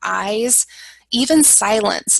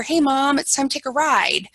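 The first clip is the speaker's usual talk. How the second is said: light cheerful invite; 4 semitones higher than usual. Shown as a demonstration.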